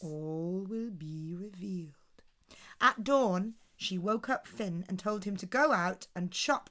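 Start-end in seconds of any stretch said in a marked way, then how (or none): 0.0-1.9 whispered teasing promise; mysterious whisper. A narrator's reading. Teasing the curious child, mysterious whisper. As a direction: breathe it like a secret.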